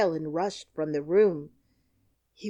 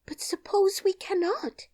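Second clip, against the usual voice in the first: much higher, whispered worry; worried whisper; 14 semitones higher, 4 dB louder than usual. A narrator's reading. Dorothy doubting the plan, in a high whisper.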